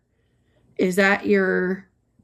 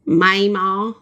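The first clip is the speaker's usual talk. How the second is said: Southern Mayma; 4 dB louder than usual. Shown as a demonstration. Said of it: "like that?".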